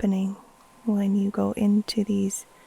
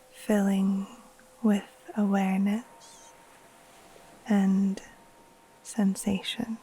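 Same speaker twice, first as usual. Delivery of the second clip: guided meditation. Acted. Teacher guiding listeners to settle in and breathe, calm meditation voice. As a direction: ease them gently into rest, leaving space between phrases.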